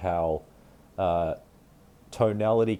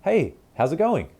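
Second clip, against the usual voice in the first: high, louder, eager greeting; upward inflection; 9 semitones higher, 5 dB louder than usual. Shown as a demonstration. Unpopular kid greeting the popular kid, pitched high and eager. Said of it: "a lot of upward tone and inflection".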